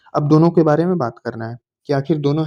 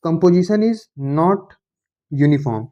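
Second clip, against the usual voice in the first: reading a definition out word by word, slowly; slow dictation; much slower than usual. Shown as a demonstration. Teacher dictating a definition to the class, very slowly. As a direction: dictate it slowly so students can copy.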